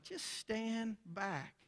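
measured command. Retold or imitated. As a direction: stretch each word out with calm authority. Jesus calmly answers Martha's objection.

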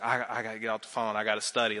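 lightly voiced wife, hushed and quick; imitating his wife. Husband retells wife ending calls.

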